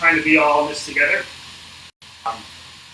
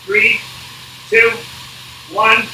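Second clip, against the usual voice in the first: coach countdown shouting; 4 semitones higher than usual. Real, not acted. Coach calling interval countdown on bike.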